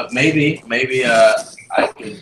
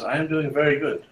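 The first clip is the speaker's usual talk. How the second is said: put-on slightly German-accented woman, higher pitch; a hint of German in a higher voice; accidental German accent; 5 semitones higher, 4 dB quieter than usual. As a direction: slip into a light German accent. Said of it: "She's German all of a sudden".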